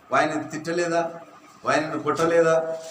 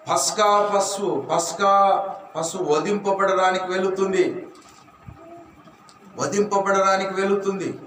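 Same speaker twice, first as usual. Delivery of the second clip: fervent preaching; 3 semitones higher than usual. Acted. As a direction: preach it with rising force. Builds preaching.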